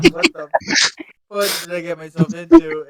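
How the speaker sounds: lightly hammed-up, loud, high-starting disbelief; exasperated onlooker. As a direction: play the historian regretting all of this. Voicing the historian watching the scene.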